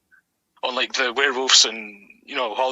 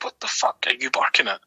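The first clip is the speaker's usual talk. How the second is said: exasperated yell held back from a shout; retold yell; 12 semitones higher, 3 dB quieter than usual. Owner scolding the barking dog on a walk, high mock yell. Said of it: "but, like, I'm yelling".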